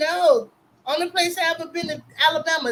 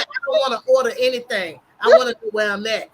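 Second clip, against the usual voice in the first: louder, insistent mock demand; exasperated retold demand; 6 dB louder than usual. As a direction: push the words out fast and impatient. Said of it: "I said".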